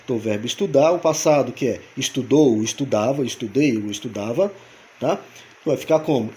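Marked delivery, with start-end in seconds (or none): none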